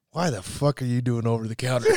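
retold question, laughing. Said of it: "I said".

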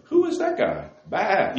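little sheep voice. Pretend. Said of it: "in their little sheep language".

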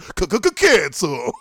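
slow stuttered DJ call; lightly voiced eighties radio jock; shock jock voice. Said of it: "morning shock jock with".

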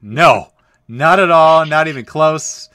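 loud, high and slow, stretching each word; a big mock-outraged no; emphatic denial. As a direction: shout it down, no way. Retold emphatic reply to dad.

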